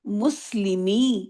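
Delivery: مسلمی stretched out very slowly and falling at the end; very slow demo word. Shown as a demonstration. Teacher answers her own question for students, very slow. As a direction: draw مسلمی out syllable by syllable. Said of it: "اس کا مضاف اگر بنے گا تو کیا بنے گا".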